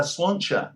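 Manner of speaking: Sláinte said as the Irish toast; Irish pronunciation. Shown as a demonstration. Comparing the title to a toast, Sláinte in Irish pronunciation. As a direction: say Sláinte like Irish cheers, long first vowel. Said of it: "that's how I should pronounce it".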